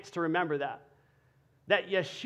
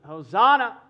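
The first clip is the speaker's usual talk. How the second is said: loud cry of "Hosanna" from the crowd; crowd shout; 4 semitones higher, 12 dB louder than usual. Retold or imitated. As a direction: call out "Hosanna" loudly like a crowd. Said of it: "So the crowd is shouting".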